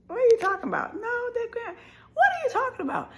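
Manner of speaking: high, laughing through tears; can't believe it, half laugh half sob; hearing shocking news, crying disbelief. Retold or imitated. Hearing grandpa lost his leg.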